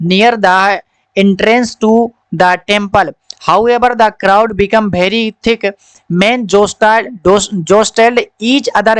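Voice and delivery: slow, careful reading-aloud voice; a teacher reads the story line by line to children. Acted. Slow story reading for the class.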